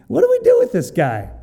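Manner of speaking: high, loud and fast, panicking; panicked sailors. Acted. Preacher voicing sailors panicking over the prophet, high and loud. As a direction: throw up your hands, what now.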